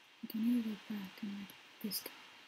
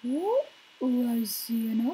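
loud confusion; 8 dB louder, much slower than usual. Real, not acted.

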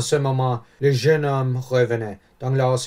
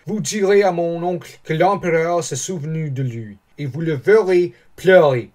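raised, lively, delighted voice; joyful; 5 semitones higher, 4 dB louder than usual. A narrator's reading. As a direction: share proud news of an uncle with delight. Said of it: "tout joyeux". (joyeux, voix animée)

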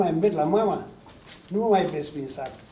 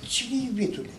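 higher-pitched worried question; alarmed; 6 semitones higher than usual. Acted. Alarmed wife asking her frightened husband who it is. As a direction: ask with rising alarm. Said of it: "se alarmă soția".

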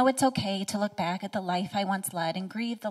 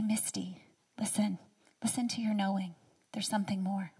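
soft, hushed inner voice; inner whisper; 5 dB quieter than usual. Retold or imitated. Inner voice urging Misty to listen, hushed whisper. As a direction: breathe it like a quiet voice in your head. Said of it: "that voice began to whisper to me".

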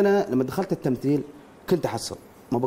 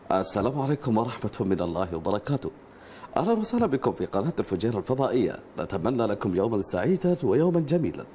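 lower, formal channel announcer read; 5 semitones lower than usual. Acted. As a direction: open the broadcast like a station presenter. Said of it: "صوت شخصية يعني".

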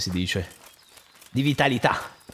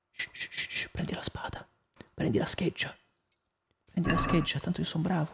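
softer hushed whisper; 9 dB quieter than usual. Real, not acted. Sneaking up on enemies, whispered. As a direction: hush it like sneaking past guards.

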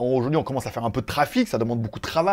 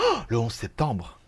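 soft gasp, then lower, slower "le onze septembre"; dawning realization; 6 semitones lower, 5 dB quieter than usual. Real, not acted. Vlogger realizing his live falls on 9/11, hushed. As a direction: let it sink in with a quiet gasp.

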